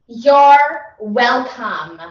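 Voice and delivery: slow, loud you're welcome; drawn-out you're welcome. Shown as a demonstration. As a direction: stretch it out grandly. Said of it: "I mean".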